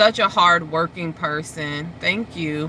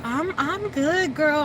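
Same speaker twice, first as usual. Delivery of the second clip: higher-pitched, unhurried reassurance; calm friend; 10 semitones higher, slower than usual. Retold or imitated. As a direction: imitate a friend's easy calm. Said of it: "sounds so, like, calm".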